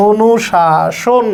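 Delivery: অনুশাসন drawn out slowly, ending in "-shon"; slow "o-nu-shaa-shon"; correct pronunciation. Shown as a demonstration. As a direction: stretch every syllable of অনুশাসন, round final o. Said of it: "তাহলে এটা হবে".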